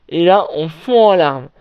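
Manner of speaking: ordinary delivery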